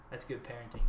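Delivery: imitating an unflinching, matter-of-fact dealer; retold deadpan. Dealer explaining the blanket on kid's door, deadpan. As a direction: say it straight, without flinching. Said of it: "He didn't flinch when he said it".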